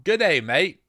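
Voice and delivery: half-hearted attempt at Australian; mock Australian greeting, not convincing; bad Australian accent. Shown as a demonstration. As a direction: try an Australian accent, badly. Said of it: "that's Australian".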